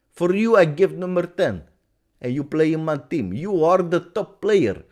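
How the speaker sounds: put-on emphatic coach with a Portuguese accent sliding into Russian; Mourinho. Coach courting a star player by phone, mock Portuguese-accented impression. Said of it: "from a Portuguese accent, I went to the Russian accent".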